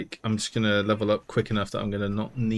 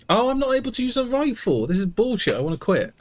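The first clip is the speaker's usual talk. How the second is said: frustrated outburst; 11 semitones higher, 4 dB louder than usual. Real, not acted. Frustrated gamer can't use rifle.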